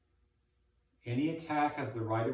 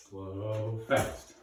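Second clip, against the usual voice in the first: called tempo. Shown as a demonstration. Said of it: "go under the arm".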